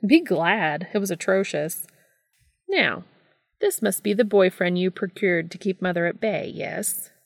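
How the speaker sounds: a hint of a flamboyant older brother, relieved and fed up; lightly voiced Gabriel, exasperated.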